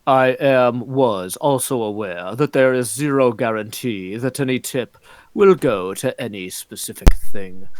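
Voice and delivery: put-on reading chat in a Canadian accent. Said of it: "That's my best Canadian accent".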